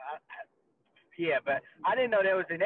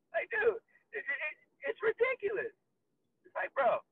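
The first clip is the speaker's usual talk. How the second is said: mock exasperation; 13 semitones higher than usual. Mock outrage.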